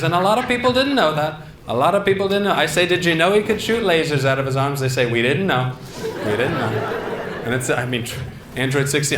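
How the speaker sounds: lightly voiced rally-speech Trump; a hint of Trump repeating himself; Donald Trump. Comic doing Trump praising Android sixteen, light impression. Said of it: "here's Donald Trump talking about Dragon Ball Z".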